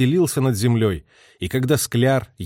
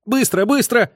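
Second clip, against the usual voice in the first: much higher, ringing order; ringing command; 11 semitones higher, 4 dB louder than usual. A narrator's reading. Lieutenant ordering crew to move the gun, ringing. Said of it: "звонким своим голосом скомандовал".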